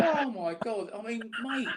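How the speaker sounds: laughing in disbelief; a real laugh breaking through; amused groan, laughing. Real, not acted. Laughing at failed rap attempt.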